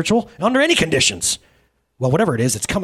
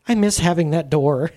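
laughing cry. Acted. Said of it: "cried one of the angels".

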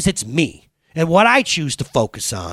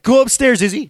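parental order; 10 semitones higher, 5 dB louder than usual. Retold or imitated. Replays mother's order to the child.

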